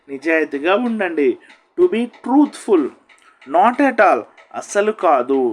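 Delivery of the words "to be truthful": slow, syllable by syllable; careful slow model phrase; slow drill. Shown as a demonstration. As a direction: drag out To be truthful slowly. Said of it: "drill: to be truthful, repeated".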